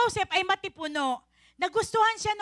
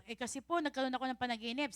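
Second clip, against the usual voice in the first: softer, fast, humble servant voice; timid cupbearer; 5 semitones lower, 11 dB quieter, faster than usual. Acted. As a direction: mumble it shyly to Joseph. (mahiyain na tagapagdala ng kopa)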